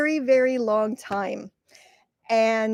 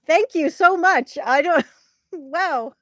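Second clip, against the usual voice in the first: overwhelmed thanks; 5 semitones higher, 3 dB louder than usual. Real, not acted. Overwhelmed by a viewer's gift.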